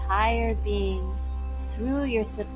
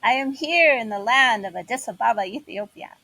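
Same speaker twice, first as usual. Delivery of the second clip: joyful declaration; 3 dB louder than usual. Shown as a demonstration. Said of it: "and then declare".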